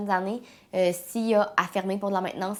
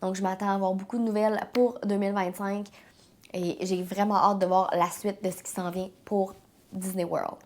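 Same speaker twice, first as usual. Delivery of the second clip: stuffy, congested head-cold voice; blocked nose. Real, not acted. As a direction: talk through a blocked nose. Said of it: "je parle beaucoup du nez aujourd'hui".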